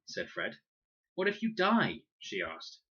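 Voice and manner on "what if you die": alarmed. A narrator's reading. Girl asks in alarm.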